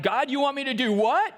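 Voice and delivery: a hint of nervous pleading; anxious protest. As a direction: whine out your fear. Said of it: "where you're like".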